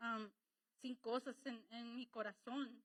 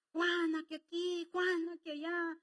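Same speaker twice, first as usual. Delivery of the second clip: higher, louder mocking chatter; mock gossip; 6 semitones higher, 7 dB louder than usual. Preacher mocking people running to neighbour Juana, hammed up. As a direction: ham up the busybody.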